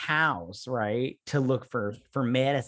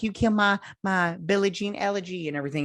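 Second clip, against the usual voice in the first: mock angry partner; 6 semitones higher than usual. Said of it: "she's like".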